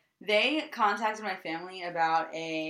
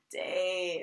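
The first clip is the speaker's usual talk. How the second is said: vocal fry; 4 dB quieter than usual. Pretend. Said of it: "you can vocal fry the real one".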